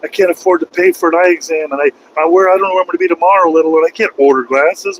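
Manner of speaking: lightly voiced exasperated self; retold panic. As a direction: replay his own frantic protest. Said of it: "I'm like".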